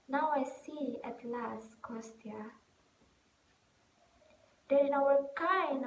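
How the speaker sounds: lightly acted stage monologue, emphatic bursts then settling; a mildly impassioned actress finding her resolve; Nina, impassioned. Nina tells Kostya what acting has taught her, mildly impassioned.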